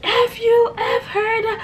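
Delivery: high, sobbing mock cry; hammed-up tearful curse. Sister-in-law sobs curses at them, high mock crying. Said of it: "she was bawling".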